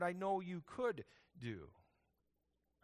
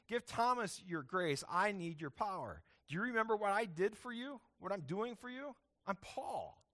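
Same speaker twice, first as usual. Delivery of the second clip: higher, pouting protest to God; indignant Paul; 5 semitones higher than usual. Retold or imitated. Paul pushes back on God, a higher indignant whine. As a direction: huff like an offended apostle demanding his due. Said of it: "if I'm Paul, I think I'm probably gonna push back on God".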